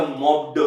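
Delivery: मॉप्ड spoken as "mop-duh". Shown as a demonstration. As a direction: put a voiced "duh" after मॉप्ड. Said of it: "कि जैसे एक तो हो गया".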